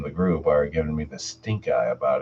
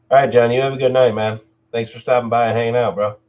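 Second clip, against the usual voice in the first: cheery goodbye; 5 semitones higher, 5 dB louder, faster than usual. Real, not acted. Host says goodbye to viewer.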